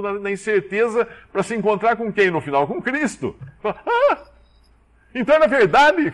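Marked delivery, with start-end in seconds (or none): 3.6-6.1 high, bright gasp of wonder, then the question; amazed. Acted. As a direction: realize it was true all along. Believer surprised meeting Christ.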